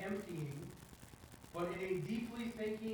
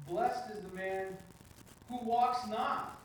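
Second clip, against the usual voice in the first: slow, with "walks not" raised high and loud; stress on WALKS NOT; 3 semitones higher, 5 dB louder, much slower than usual. Shown as a demonstration. Teacher shows reading a verse with changed emphasis, stress on "walks not". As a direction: punch out "walks not" after a short pause. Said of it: "read it aloud with emphasis on different words".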